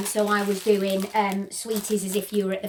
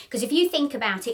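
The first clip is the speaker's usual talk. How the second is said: short of breath from a chest infection; faster than usual. Real, not acted. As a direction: speak slightly winded. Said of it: "I'm still a little bit out of breath".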